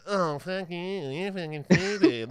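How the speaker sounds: mock heckler. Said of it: "thing that they did the entire show".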